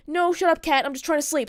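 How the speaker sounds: grumpy imitation of a half-asleep boyfriend; retold bitching. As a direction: imitate someone griping at being woken. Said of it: "just fucking started bitching at me, saying".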